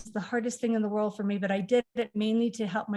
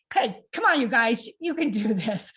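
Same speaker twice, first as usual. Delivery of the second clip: calling out teasingly; 4 dB louder than usual. Real, not acted. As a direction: chide the brothers playfully across the room. Laughing at brothers struggling.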